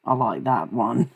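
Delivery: lightly put-on Australian, a bit British colonial; playfully faked Australian accent; mock Australian accent. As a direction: tease in a half-convincing Australian accent. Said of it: "it sounds more like British colonial".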